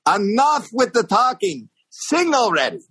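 high-pitched impatient lady impression; high, fed-up mock complaint; old lady heckler. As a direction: mimic an elderly heckler demanding a song. Elderly lady heckler ordering him.

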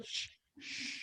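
whispered shh to hush; shushing whisper. Real, not acted. Hushing co-host, keep it secret.

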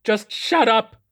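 very high, loud snap; snapping. A narrator's reading. Mad captain snapping at Lakely, high and loud. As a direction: shriek at him to shut up. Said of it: "he snapped".

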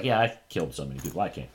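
quick, offhand imitation of a brazen admission; breezy mock confession; mocking nonchalance. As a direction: rattle it off like it's nothing. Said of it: "She, like, mocks".

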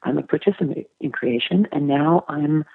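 calm, measured self-assurance. Acted. Woman answering her evil inner voice as a negotiator would, calmly. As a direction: speak evenly, as a negotiator soothing a sociopath. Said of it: "I just very calmly say".

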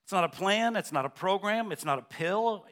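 usual speaking voice

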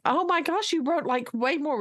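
high, thrilled exclamation; amazed teacher. Retold or imitated. Teacher amazed at student's two pages, high excited gasp. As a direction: gush with delighted surprise. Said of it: "And I'm like".

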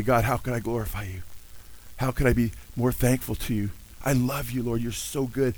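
soft, devoted address to God; tender prayer. Acted. Preacher models believer's daily prayer to God, tender. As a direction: pray it softly and gratefully.

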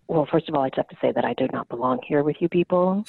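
a hint of a deep-voiced Boston mom; mom impression. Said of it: "very deep smoker's voice and this very strong Boston".

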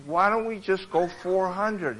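a hint of a persuading wife; lightly voiced wife. Wife proposing a smaller figure to her husband, lightly voiced. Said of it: "you know, the lady".

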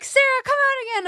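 high-pitched mock fan plea; put-on high fan voice; pleading audience member. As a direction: imitate a crowd begging for an encore. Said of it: "they're like".

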